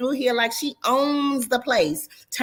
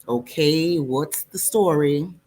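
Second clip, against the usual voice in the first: Ramel voice; 4 semitones lower, slower than usual. Acted. Male friend Ramel voiced.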